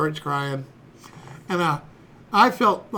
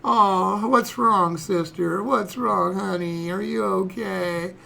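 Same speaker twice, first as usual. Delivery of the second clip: lightly voiced soothing father; mock doting dad; much slower than usual. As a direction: coo to a crying daughter, trailing slowly. Dad soothing his crying daughter.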